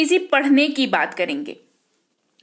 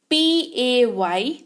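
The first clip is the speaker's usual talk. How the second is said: drawn-out spelling to the class; very slow spelling; much slower than usual. Shown as a demonstration. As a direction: spell पी ए वाई very slowly, letter by letter. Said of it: "ये इसको कहते हैं पे".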